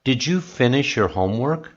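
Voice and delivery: "homework" lifts at the end; rising question. Shown as a demonstration. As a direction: raise the voice through "homework". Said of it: "your voice goes up at the end".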